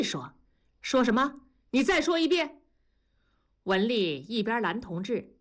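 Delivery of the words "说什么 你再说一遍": high, threatening dare to repeat it; angry challenge. Acted. Father daring his son to repeat himself, angry and high. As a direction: dare him to say it again.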